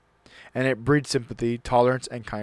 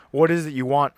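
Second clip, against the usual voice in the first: louder, curt impatient snap; snapped; 4 semitones higher, 5 dB louder than usual. Acted. Father annoyed at his son in the library, snapping. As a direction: snap it at the interruption. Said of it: "I snapped".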